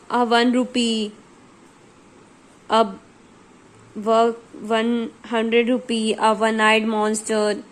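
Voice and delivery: slow, with वन starting on a clear W sound; slow demo of वन said as WUN; teaching pronunciation. Shown as a demonstration. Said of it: "व की sound आ रही है".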